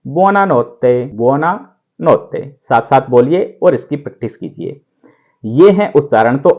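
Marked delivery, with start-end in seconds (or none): 0.0-2.4 buonanotte stretched out slowly; repeat-after-me drill; slow model word. Shown as a demonstration. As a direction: draw out buonanotte for students to copy. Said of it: "इसको बोलेंगे".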